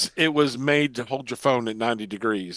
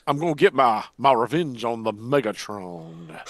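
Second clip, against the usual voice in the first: cartoon villain voice.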